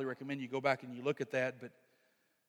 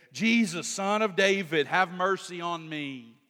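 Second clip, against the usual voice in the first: crying out; 5 dB louder than usual. Retold or imitated. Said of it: "cry out with a loud voice".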